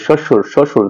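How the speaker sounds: "শ্বশুর" closed quickly on the r; quick final r. Shown as a demonstration. Teacher showing the last letter is said quickly, quick final r. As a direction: cut the r of "শ্বশুর" short. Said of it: "লাস্টের রটা তাড়াতাড়ি উচ্চারণ করি".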